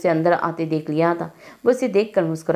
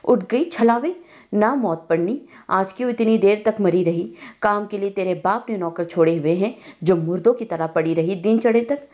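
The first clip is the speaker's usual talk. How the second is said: hissed scolding. Acted. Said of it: "दादी सुबह की जली हुई एकदम फनकारी".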